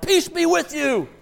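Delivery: high, loud, drawn-out proclamation; slow comic mock-grand holler; booming surprise greeting. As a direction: burst in on them with a hammed-up greeting. Jesus suddenly appears to disciples.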